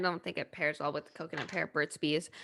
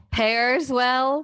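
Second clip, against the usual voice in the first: laughing; 5 semitones higher, 7 dB louder than usual. Real, not acted. Joke about lip balm pairing.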